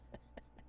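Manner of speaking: low rasping chuckle; gravelly chuckle. Acted. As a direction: chuckle like an old sea dog. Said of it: "he chuckles that gravelly chuckle".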